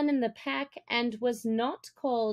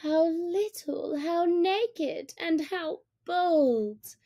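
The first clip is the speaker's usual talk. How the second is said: a lightly voiced mother wolf, higher and tender, slowing at the end; softly; 7 semitones higher, slower than usual. A narrator's reading. Mother Wolf looks down at the man's cub, softly. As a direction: marvel gently at the little one. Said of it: "said Mother Wolf softly".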